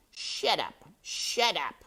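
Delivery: high, loud, repeated order; angry shout. A narrator's reading. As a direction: shout them down. Rat silences the others.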